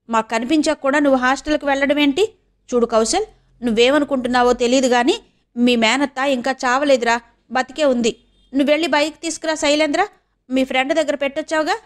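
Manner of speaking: lightly voiced aunt, a quick scolding; insistent aunt. (కొంచెం గదమాయించే అత్త గొంతు)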